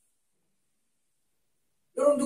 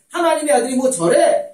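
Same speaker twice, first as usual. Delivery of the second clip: loud, high-pitched scoff; scornful jeer; 6 semitones higher, 8 dB louder than usual. Retold or imitated. Onlookers scoff at the suffering Son of God, loud jeer. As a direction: throw it out as a loud, incredulous jeer.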